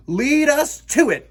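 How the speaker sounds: high, loud battle cry; eager shout. Acted. Lost boys rush to attack, shouting. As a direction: charge in eagerly. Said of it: "they shouted".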